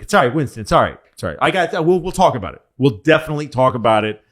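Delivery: lightly impatient reassurance; placating. Acted. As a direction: soothe him just to put him off. Roosevelt placating an anxious Churchill.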